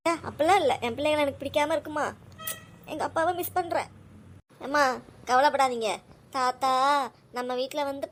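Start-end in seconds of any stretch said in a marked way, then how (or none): 0.1-3.9 still tearful. Real, not acted. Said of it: "அம்மா, அழாதீங்கம்மா".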